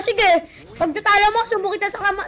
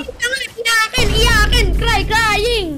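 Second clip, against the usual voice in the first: taunting; slower than usual. Acted. Taunting the other player.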